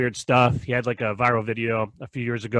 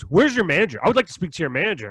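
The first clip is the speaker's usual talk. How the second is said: higher, clipped demand for manager; mock entitled customer; 4 semitones higher than usual. Customer demanding a manager, higher mock indignation. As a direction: play the Karen asking for a manager.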